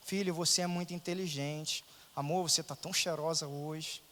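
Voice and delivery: soft, gentle compliments; softly voiced loving compliments; sweet talk. Shown as a demonstration. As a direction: coax the family kindly. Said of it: "Olha eu tentando já".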